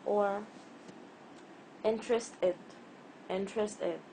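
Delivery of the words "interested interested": interestED, weight pushed onto the final ED; wrong last-syllable stress. Shown as a demonstration. Teacher shows another wrong pronunciation, interestED stressed at the end. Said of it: "This is also not right".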